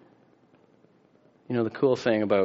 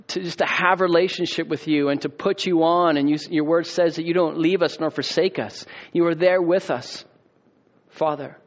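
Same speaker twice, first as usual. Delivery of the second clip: earnest pastor praying over the church; closing prayer; 3 semitones higher than usual. Acted. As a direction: pour it out to the Father.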